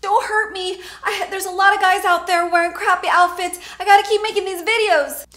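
high, breathless whisper begging; hammed-up frightened whisper; whispered mock plea. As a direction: beg for your life in a hushed voice. Begging the imagined captor.

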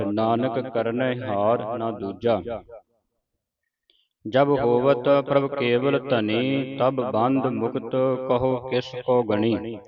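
slow, deliberate recitation of verse; scripture recitation. Shown as a demonstration. Teacher leads the congregation through the verses, slow recitation. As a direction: draw out each phrase, pausing between them.

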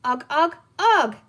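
put-on high, loud baby creature noises; chattering pollywog. A narrator's reading. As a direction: chatter back in excited grunts. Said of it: "the pollywog chattered back to him".

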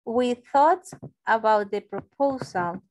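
slow, careful reading; slow model sentence. Shown as a demonstration. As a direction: read it out for the class. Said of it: "We didn't think". (lectura lenta de ejemplo)

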